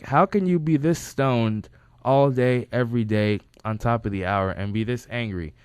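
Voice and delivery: loud, incredulous start, easing off; retold exasperation. Asking a stoned friend why he's angry, exasperated.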